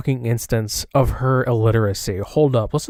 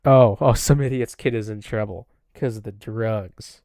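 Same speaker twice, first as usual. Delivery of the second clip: mocking echo. Streamer echoes rival's drug accusation, mocking. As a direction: parrot the accusation back with scorn.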